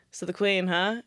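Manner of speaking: understated, casual and even; calm retold question. Friend broaching Queen's death while walking, calm. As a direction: raise it gently, in an everyday voice. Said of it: "calmly and went".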